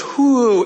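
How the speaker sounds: a rising mock whoosh as the room spins; playful dizzy whoo. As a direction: sound the room spinning. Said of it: "the room goes".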